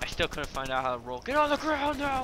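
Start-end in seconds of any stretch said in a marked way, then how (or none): 1.2-2.2 police command. Acted. Cop style command.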